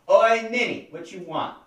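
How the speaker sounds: shouted greeting, high and loud; loud call. Acted. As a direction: call out across the room. Player calls out in character.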